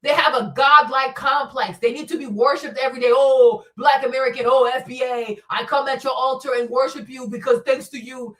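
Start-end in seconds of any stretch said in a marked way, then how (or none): 3.1-8.4 sarcastic mock praise, shouted at the end; mock worshipper. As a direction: ham up a fawning worshipper. Mocking people who demand worship.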